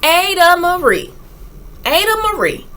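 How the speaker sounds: high, loud sing-song calling of Ada Marie; storybook chant of the name. A narrator's reading. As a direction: call the name out brightly, like a chant. Opening of rhyming picture book.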